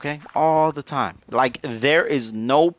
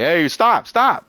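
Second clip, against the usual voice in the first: higher, louder mock yell to halt; retold urgent cry; 7 semitones higher, 6 dB louder, much slower than usual. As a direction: call out as if getting squashed, pitch climbing. Voices squished friend calling out.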